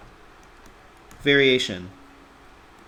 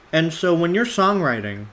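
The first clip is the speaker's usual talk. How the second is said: talking while chewing a mint; 2 semitones higher than usual. Real, not acted. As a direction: mouth full of mint, chewing. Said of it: "sorry, I'm chewing on a mint".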